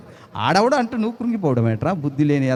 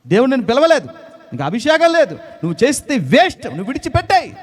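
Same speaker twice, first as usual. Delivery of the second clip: mock scornful critic; 7 semitones higher than usual. Voicing scornful critics in story.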